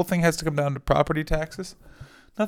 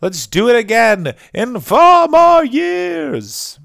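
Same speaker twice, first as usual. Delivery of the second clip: much higher, louder, slow mock voice; mocking Alex Salmond; 10 semitones higher, 11 dB louder, much slower than usual. Mocking Salmond's shrug after the lost vote, high and slow. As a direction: drawl it out as a deflated politician. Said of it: "just sort of be like".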